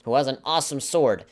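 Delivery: mock the snobbish parents who only want a ninja. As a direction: parody of status-hungry adoptive parents.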